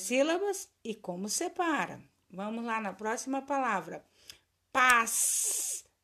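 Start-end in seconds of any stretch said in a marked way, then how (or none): 4.7-5.9 "Passarinho" as pas, sa, ri, nho with gaps; syllable by syllable. Shown as a demonstration. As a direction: draw out and separate all four syllables. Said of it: "Separa as sílabas".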